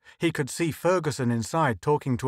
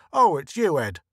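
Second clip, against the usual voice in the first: higher, louder surprised voice for the clerk; 3 semitones higher, 4 dB louder than usual. A narrator's reading. Stationery clerk recognizing Ed, louder higher surprised. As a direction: clerk catching himself mid-snap, louder.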